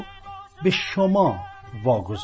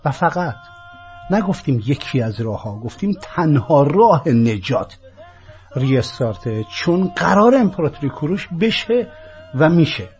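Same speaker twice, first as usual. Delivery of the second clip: loud insistence; 6 dB louder than usual. Real, not acted. Insisting restart is only way.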